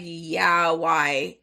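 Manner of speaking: low, annoyed comeback. Retold or imitated. Texting back the date who questioned the outfit, annoyed. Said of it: "mad annoyed, like, super fucking annoyed".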